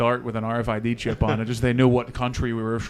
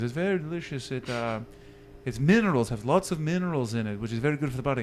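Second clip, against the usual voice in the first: badly faked German saleswoman; bad German accent; 5 dB quieter than usual. German saleswoman selling mineral water, bad German accent. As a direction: have another go at a German accent. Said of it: "I can't do a German accent".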